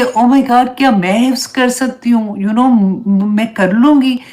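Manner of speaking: retold excitement. Student marvelling that she might memorise it, retold excitement. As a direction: mildly re-enact a breathless "can I really?". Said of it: "excitement इतनी थी".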